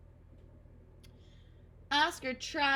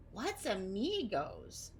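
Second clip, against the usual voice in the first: 1 slow puzzled question; much slower than usual. Acted. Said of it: "Nibbles asked".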